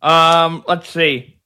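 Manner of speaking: talking around a pen; words past a pen held in teeth; pen in mouth. Real, not acted. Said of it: "Sorry, I got my pen in my mouth".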